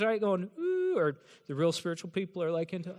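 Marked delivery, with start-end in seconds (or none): 0.6-1.0 mock worship ooh. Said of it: "we got our hand wavers".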